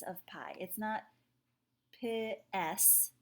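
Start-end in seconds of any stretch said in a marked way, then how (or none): 2.0-3.1 P S as "pih-ess", two syllables for piece; split vowels. Shown as a demonstration. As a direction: break piece wrongly into P S, "pih" then "ess". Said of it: "it's not a P S".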